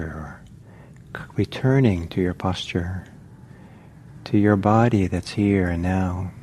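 unhurried meditation guidance with long pauses; measured meditation-teacher delivery, phrase by phrase; guided meditation. Real, not acted. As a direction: guide listeners gently, leaving long silences between phrases.

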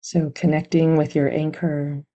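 calm, even meditation guidance with long pauses; guided meditation. Real, not acted. Meditation teacher settling listeners onto their anchor, calm and unhurried. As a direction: gently guide them into stillness, leaving long silences.

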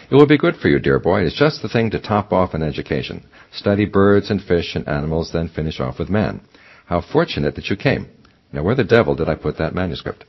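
lightly voiced pompous old badger; a donnish old professor, pleased with himself; fussy old scholar voice. Reading the badger's lines.

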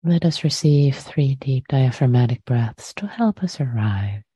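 unhurried meditation guidance with long pauses; guided meditation. Real, not acted. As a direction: gently guide listeners to settle, phrase by phrase.

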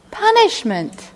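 high, slow disbelieving echo; incredulous repeat. Real, not acted. Repeating shocking definition.

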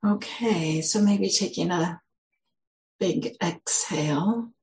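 unhurried, gentle guiding with long pauses; guided meditation. Real, not acted. Teacher leading the group into settling with a big exhale, guided meditation. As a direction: ease listeners into settling, leaving long silences.

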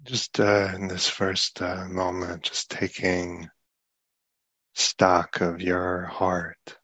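soft, unhurried meditation guidance; guided meditation. Real, not acted. Teacher guiding listeners to take stock of the heart, guided meditation. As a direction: ease them inward softly, leaving long pauses.

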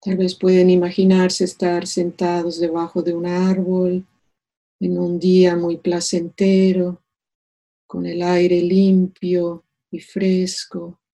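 calm meditation voice with long pauses; unhurried, soothing meditation leader; guided meditation. Acted. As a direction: guide them gently into stillness, leaving space between phrases.

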